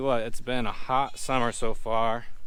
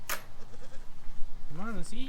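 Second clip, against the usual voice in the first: high coaxing call to eat; pet talk; 8 semitones higher, slower than usual. Real, not acted. Calling hungry goats to their food, high coaxing pet voice. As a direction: lift the voice high and coax them over.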